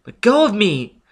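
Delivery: high, loud outraged shout; furious cry. Acted. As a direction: wrench free with a yell. Robin fights Foyle's grip.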